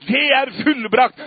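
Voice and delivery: triumphant shout of it is finished; Jesus' cry from the cross. Retold or imitated. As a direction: call it out in triumph. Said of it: "Han ropte det ut til slutt".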